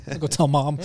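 soft, laughing tattle; laughing threat. Retold or imitated. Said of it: "I'm like".

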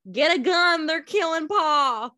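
half-acted cry for help; retold yell. Host retells the son's cry to the neighbors as a mock yell. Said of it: "he was yelling".

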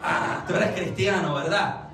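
«Ah» de quien cae en cuenta, luego «cristiano» afirmado; reconocimiento. Shown as a demonstration. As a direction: afirma «cristiano» en tono grave y confirma con «¿verdad?». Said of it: "connotación completamente diferente". (constatación convencida)

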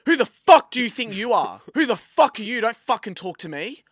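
loud, high-pitched retold outburst; explosive, indignant telling-off; angry tone change. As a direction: mimic her turning suddenly hostile. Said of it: "her tone changes".

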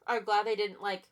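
talking around a burp; words broken by a burp. Real, not acted. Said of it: "excuse me, I'm burping a lot".

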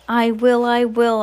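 put-on excited child's agreement; eager answer. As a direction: jump in keenly with the answer. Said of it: "I answered".

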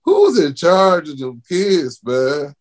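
high, rising incredulous rant; outraged rant. Real, not acted. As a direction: pitch up in disbelief at the parents. Outraged rant about kids.

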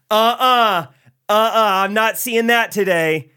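high, loud, sassy scolding voice; retelling the gate agent scolding him for yawning, in a sassy high voice; mock chipper gate agent. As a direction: play the overly chipper agent wagging a finger at a yawn.

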